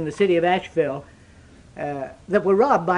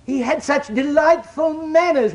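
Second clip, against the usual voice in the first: quoting the bank managers; 7 semitones higher, slower than usual. Retold or imitated. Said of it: "they said".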